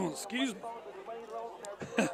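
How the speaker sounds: strained, choked voice after coughing; recovering from swallowing wrong; swallowed wrong way. Real, not acted.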